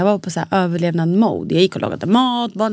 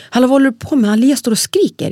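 higher, louder mock alarm; husband's alarm; 5 semitones higher, 4 dB louder than usual. Husband waking her at four am, raised alarmed voice. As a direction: call out like a startled husband woken at night. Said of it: "Han bara så här".

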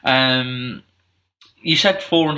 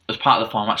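slurping drink; faster than usual. Real, not acted. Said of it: "sorry, slurping my drink there".

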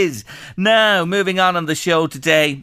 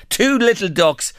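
higher, sung-out bingo call; bingo caller; 5 semitones higher than usual. Shown as a demonstration. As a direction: sing it out to the hall. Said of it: "in bingo parlance".

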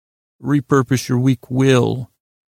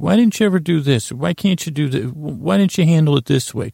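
higher-pitched self-scolding questions; nagging inner critic; 4 semitones higher than usual. Acted. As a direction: lightly nag yourself, exasperated. Voicing his nagging inner critic.

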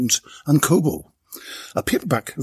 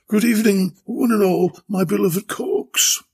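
higher, louder grand greeting; booming duchess; 7 semitones higher, 3 dB louder than usual. Acted. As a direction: boom it out to the room. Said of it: "she boomed".

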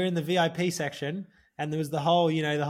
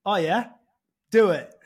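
eager challenge; 3 semitones higher, 7 dB louder than usual. Retold or imitated. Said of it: "the prince goes".

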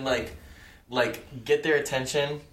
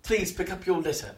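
polite request; 6 semitones higher than usual. Acted. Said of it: "very politely ask him".

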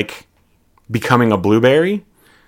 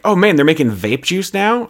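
excited; 7 semitones higher than usual. Acted. Voicing excited Violet.

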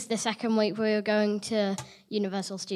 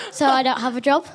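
laughing through the words; giggling while speaking; 2 semitones higher, 6 dB louder, faster than usual. Real, not acted. Kid jokes he's a billionaire.

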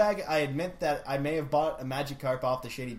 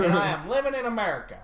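put-on brisk southern accent with a laugh in it; 3 semitones higher, 3 dB louder, faster than usual. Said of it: "do this in a southern accent".

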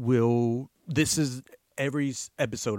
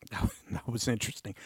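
laughing; 6 dB quieter, much faster than usual. Real, not acted. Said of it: "sorry, ooh".

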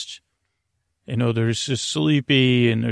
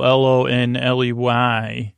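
spelled out letter by letter. Shown as a demonstration. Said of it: "however you spell that word".

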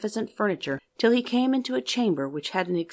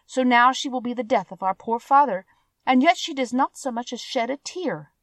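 spiteful sisters; 5 semitones higher than usual. Acted. Jealous sisters scold Beauty.

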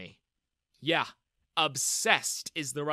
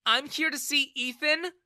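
high, louder curt reply; angry; 11 semitones higher, 6 dB louder than usual. A narrator's reading. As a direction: snap back at him. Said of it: "she replied angrily".

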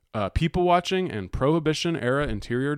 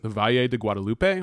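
Spanish accent. Real, not acted. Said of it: "I have a terrible Spanish accent".

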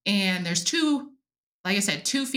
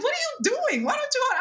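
wife's voice; faster than usual. Retold or imitated. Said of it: "Jenna's like".

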